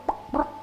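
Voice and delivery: imitated crash noise.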